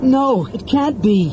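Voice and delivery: high, drawn-out cry of horror; choked. Acted. Half-elf grips the mage in horror, choked. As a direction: choke out slow, anguished disbelief. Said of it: "Tanis choked".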